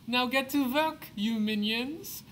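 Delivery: high, loud commanding villain; mad scientist. Acted. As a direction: bark orders at the minions. Villain orders his minions.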